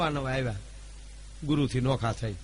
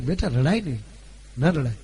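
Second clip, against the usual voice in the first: soothing mother; 3 semitones lower than usual. Retold or imitated. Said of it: "કીધું બે વાર".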